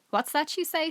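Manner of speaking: high, puzzled asking; the deaf woman asks the children to repeat; deaf old woman. A narrator's reading. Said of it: "cupping her hand behind her ear".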